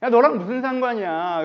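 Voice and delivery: a loud, irritated comeback; annoyed snap. Retold or imitated. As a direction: snap at Peter, fed up. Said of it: "예수님께서 짜증".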